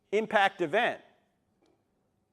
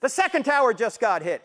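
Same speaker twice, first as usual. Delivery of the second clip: retold scream; 4 semitones higher, 6 dB louder than usual. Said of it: "he screams into the phone".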